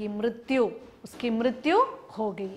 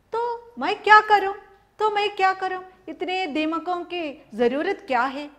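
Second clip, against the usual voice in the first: dismissive cart driver; 6 semitones higher than usual. Acted.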